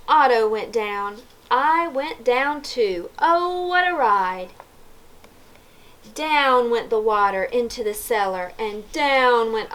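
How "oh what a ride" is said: excited exclamation. A narrator's reading. Narrator exclaiming over tumbling down, excited. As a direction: exclaim it high, riding the fall.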